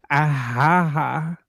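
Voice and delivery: mimicked "ah, ha, ha" alert; imitated alarm noise. Co-host pretends to be Nick's morning alarm, imitating it. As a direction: copy the looping wake-up sound. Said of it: "Imagine that being your alarm".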